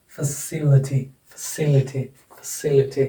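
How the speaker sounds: "फैसिलिटी" as fuh-SIL-i-ty; stress demonstration. Shown as a demonstration. Teacher drilling stress before the suffix, "फैसिलिटी" stressed on the second syllable. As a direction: lean on "सि" in "फैसिलिटी". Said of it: "ये accented हो जाएगा".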